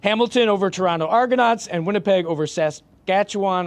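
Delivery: measured sports bulletin read; formal read-out. Real, not acted. Co-host reading Grey Cup facts to the panel, formal read-out. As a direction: read out the match preview formally. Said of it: "Why are you talking like this?".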